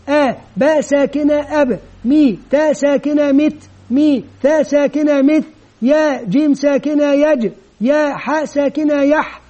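a clear classroom spelling demo; spelling each sound out. Shown as a demonstration. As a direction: spell it out letter by letter, teacher to children. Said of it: "ونطق الحروف كاملة".

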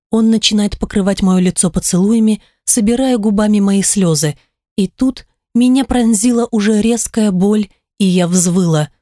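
usual speaking voice

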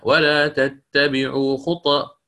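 ولا تتبعوا خط- said slowly, with the ط of خطوات silent and echoing; slow teacher demo of the silent ط in خط-; sukun on the ta. Shown as a demonstration. Teacher shows students the silent ط, slowly. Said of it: "ولو أنا قرأتها بال-، بالإسكان".

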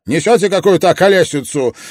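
fast, loud, high protest; indignant high shout; yelling. A narrator's reading. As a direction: rattle it off in a yell. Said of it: "завопил я".

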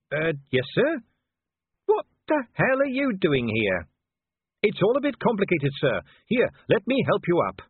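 friendly and helpful, lightly lifted; lightly voiced cheerful young Carrot. Carrot's voice in dialogue.

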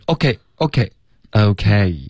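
"OK" joined up loosely, finally drawn out slowly; teacher repeating "OK" as a smooth model; relaxed, linked syllables. Shown as a demonstration. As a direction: show "OK" relaxed, not syllable by syllable. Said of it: "稍微放松一点".

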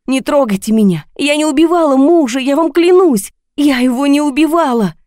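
high, loud screaming plea. A narrator's reading. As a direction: scream your innocence in panic. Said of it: "а я кричала". (кричит в ужасе «Не трогайте меня!»)

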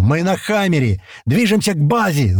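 high urgent shout; two soldiers yelling into the radio. A narrator's reading. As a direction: shout it over the noise. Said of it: "заорали одновременно Слива и Паштет".

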